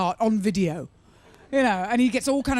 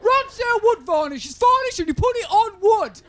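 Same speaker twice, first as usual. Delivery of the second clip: over-the-top macho DIY ad yell; bloke shouting an advert; 10 semitones higher, 5 dB louder than usual. Retold or imitated. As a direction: bellow the product name like a hammy telly advert. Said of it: "We'll just have a bloke shouting".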